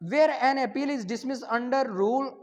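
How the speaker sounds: dictating the exam question at half speed; slow dictation to the class; slow question read. Shown as a demonstration. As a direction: read the question slowly and clearly. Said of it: "अब हमारे पास question number बारह".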